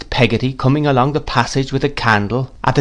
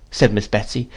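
ordinary delivery, nothing marked

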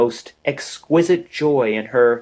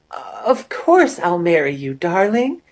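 higher, lifting on "darling"; eager acceptance; 6 semitones higher than usual. A narrator's reading. Amory accepts Peter's proposal, higher and rising. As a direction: say yes with a bright rise.

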